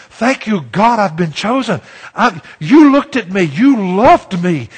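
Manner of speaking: acted prayer of gratitude, rising in volume; fervent thanks. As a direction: thank God with emphasis, stretching the key words. Models a grateful prayer to God.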